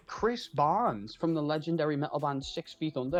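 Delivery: proudly announced name, lightly imitated; imitating singer's self-introduction. Retelling the Cameo video, proudly introducing himself by name. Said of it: "he says it brilliantly".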